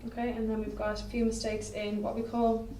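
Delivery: ordinary talk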